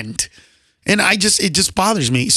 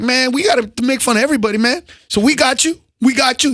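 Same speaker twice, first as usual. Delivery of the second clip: a hint of a cop's buddy talk; lightly imitated policeman; 5 semitones higher, faster than usual. Police escort reassuring the comic, lightly imitated. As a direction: lightly imitate an officer backing you up. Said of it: "He talked like that too".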